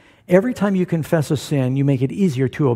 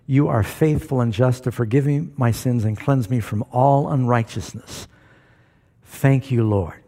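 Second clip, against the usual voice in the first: sample prayer; 3 semitones lower than usual. Shown as a demonstration.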